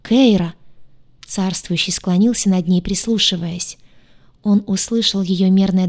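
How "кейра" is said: loud, anxious call of her name; worried cry. A narrator's reading. Ruler calls to fainting Кейра, worried cry. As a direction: call out in alarm. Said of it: "беспокойный крик повелителя".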